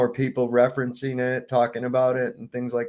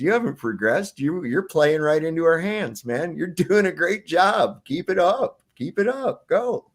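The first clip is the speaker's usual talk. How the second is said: mocking taunt climbing higher to a laugh; taunting villain; 5 semitones higher than usual. Villain mocking the man's progress, taunting and rising. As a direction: egg him on with sly mockery.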